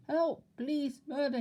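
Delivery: high loud terrified scream. Acted. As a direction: scream for help. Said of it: "he screamed".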